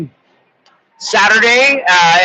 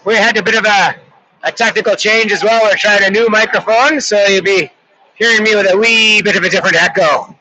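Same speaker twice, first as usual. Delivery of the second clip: light put-on Irish accent for the play-by-play. Hockey commentator doing the call in a light mock Irish accent. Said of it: "gonna give it a shot in Irish".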